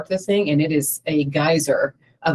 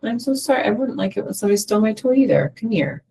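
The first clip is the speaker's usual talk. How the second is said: compassionate parent; 6 semitones higher, faster than usual. Retold or imitated. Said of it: "when you're with them with compassion".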